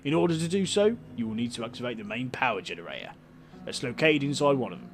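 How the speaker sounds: light Cockney councillor voice; a hint of Cockney, welcoming tone; Cockney accent. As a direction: play the councillor with a mild Cockney lilt. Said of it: "he's got a Cockney accent".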